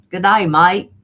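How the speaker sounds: loud mock-Aussie greeting; put-on Australian accent. Shown as a demonstration. Host repeats viewer's greeting, loud mock Australian accent. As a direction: belt it out in a playful Australian twang. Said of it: "I have to say that in an accent".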